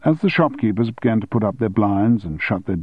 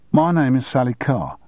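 put-on Cockney accent; 4 semitones higher than usual. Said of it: "in a breezy Cockney accent".

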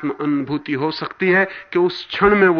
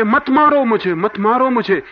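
retold anguished shout, raised and high; crying out; 5 semitones higher, 4 dB louder than usual. Mystic on the boat cries out in retold pain, loud and high. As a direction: plead loudly, then ease off on the repeat. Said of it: "एकदम जोर-जोर से चिल्लाने लगे".

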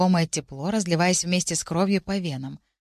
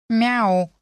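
cat meow; 4 semitones higher, 4 dB louder than usual. A narrator's reading. Cat meows.

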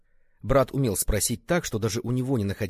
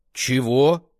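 громкое недоверчивое «Чего?»; переспросить, не веря услышанному; недоверчиво; 4 semitones higher, 9 dB louder than usual. A narrator's reading. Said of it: "недоверчиво нахмурился Фалинь". (Фалинь недоверчиво переспрашивает брата)

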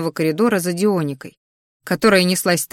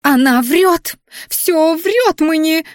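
high loud furious protest; outraged shriek; 10 semitones higher, 4 dB louder, much slower than usual. A narrator's reading. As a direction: shout the accusation shrilly.

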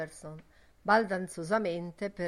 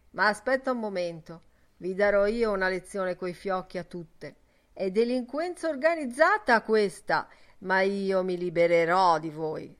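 scolding; 6 dB louder than usual. Acted. Father berates his insolent daughter.

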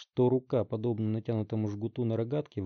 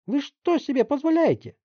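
high, loud outraged yell; angry shout; 9 dB louder than usual. Acted. Mother yelling at the detective, outraged. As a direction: scream in indignation. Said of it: "продолжала кричать мать Барри".

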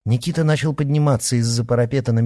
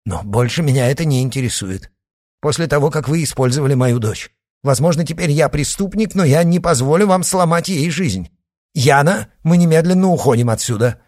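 louder and higher, rising anger; defiant; 6 semitones higher, 6 dB louder than usual. A narrator's reading. Father defies Shadow, voice rising in anger. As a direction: stand up to them with growing fury.

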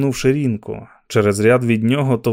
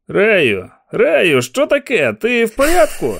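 loud, higher call of concern; shouting over the crowd; 9 semitones higher, 4 dB louder, slower than usual. Acted. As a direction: yell to reach him over the noise. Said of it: "кричав понад ревом натовпу".

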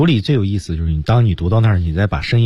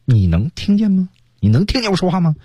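provoking; 12 semitones higher than usual. Shown as a demonstration. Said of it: "这本身就很挑衅的".

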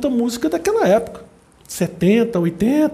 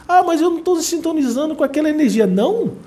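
higher, airy self-assured voice; mock smug denial; 8 semitones higher than usual. Viewer claiming immunity to bad energy, mock smug denial. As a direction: play someone sure they're above it. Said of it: "Aí você fica ali".

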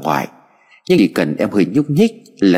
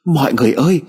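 higher, urgent cry for help, rising; panicked shout; 7 semitones higher than usual. Acted. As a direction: grandmother yelling to the neighbours in alarm. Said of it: "Bà chạy vội ra ngoài cửa rồi hét toáng lên".

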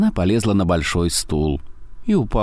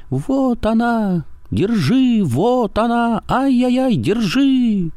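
shrill squeal; slower than usual. A narrator's reading. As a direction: squeal like he's being slaughtered. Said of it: "завизжал так, как будто его режут".

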